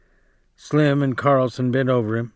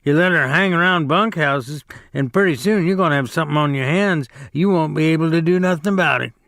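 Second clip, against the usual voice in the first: a touch of a quick, raised sneer; scornful Carlson; 4 semitones higher, faster than usual. Acted. Carlson needling Curly over his wife, quick mild scorn. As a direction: rattle off the warning with contempt. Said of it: "said Carlson".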